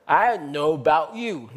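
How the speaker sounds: "I know about you" in an African American accent, slow, with the "don't" swallowed. Shown as a demonstration. Preacher imitating African American speech for the congregation, African American accent. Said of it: "你跟美国黑人讲".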